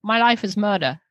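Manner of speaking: light New Zealand accent. Shown as a demonstration. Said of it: "And New Zealand".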